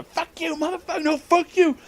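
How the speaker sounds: high-pitched imitation of a parking-lot screaming match; hammed-up high yelling; mock screaming. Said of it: "screaming at each other".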